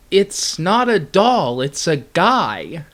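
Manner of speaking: calm logic voice. Pretend. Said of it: "this is what they said".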